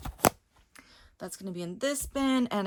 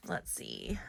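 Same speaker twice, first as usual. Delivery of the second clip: whisper; 13 dB quieter than usual. Real, not acted. Muttering to herself while searching.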